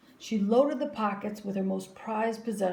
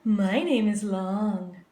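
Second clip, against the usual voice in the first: music teacher; 7 dB louder, slower than usual. A narrator's reading. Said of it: "said Missus Twinkle".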